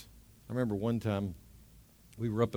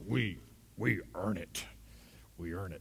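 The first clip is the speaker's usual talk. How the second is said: a hint of a gruff elder saying it; lightly imitating a rough-voiced old man; 5 semitones lower, 12 dB quieter than usual. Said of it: "he kinda had this rough voice".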